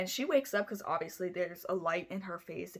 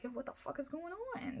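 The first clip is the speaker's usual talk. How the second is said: startled dad; 8 semitones higher, 11 dB quieter than usual. Retold or imitated. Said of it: "He was like".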